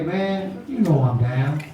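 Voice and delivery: low and cool, no big deal; laid-back friend. Retold or imitated. Friend agrees.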